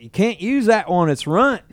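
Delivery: high, loud redneck twang; redneck Texas accent. Retold or imitated. Redneck surfer repeating himself to his teacher, Texas accent. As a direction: repeat it insistently in redneck Texan. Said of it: "this redneck that I taught".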